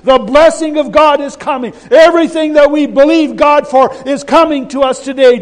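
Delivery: loud, high preaching shout of joy; shouting at his wife. Retold or imitated. Husband shouting the blessing to his wife at dawn, loud high shout. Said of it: "here he is shouting at his wife".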